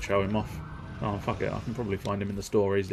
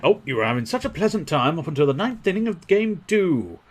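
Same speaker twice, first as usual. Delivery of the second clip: mock sympathy; 7 semitones higher, 4 dB louder than usual. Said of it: "he says, not giving that much of a shit".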